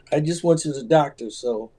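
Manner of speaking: breathy, airy voice from a cold; a little airy and hoarse, recovering from illness. Real, not acted. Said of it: "I sound a little airy".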